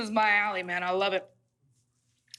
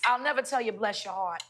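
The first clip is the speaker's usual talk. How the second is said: put-on a light Southern accent, sweet and folksy; a hint of Southern accent, softening at the end. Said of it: "Can I say this in my Southern accent".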